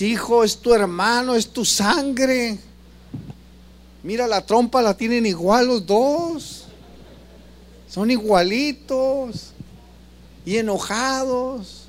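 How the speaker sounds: slow, drawn-out parental reproach; mock parent chiding bickering brothers slowly; parent pleading with sons. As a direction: stretch it out like a tired parent lecturing. Parent scolding quarreling children.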